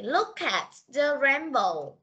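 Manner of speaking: slow, deliberate teacher read-aloud; unhurried, carefully spaced words; slow model reading. Shown as a demonstration. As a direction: model the phrase slowly for learners. Teacher models sentence for pupils.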